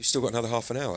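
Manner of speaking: mild, called-out delivery. Retelling what someone called out during a set: imitating someone shouting. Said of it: "someone shouted to me saying".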